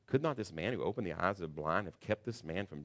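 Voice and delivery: a touch of sneering sarcasm in the question; lightly sarcastic retort. Retold or imitated. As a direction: read it as a mocking jab. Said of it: "This is sarcastic".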